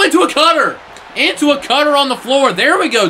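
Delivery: high, loud thrilled shout; excited call. Real, not acted. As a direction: yell the cutter with delight. Big move lands live.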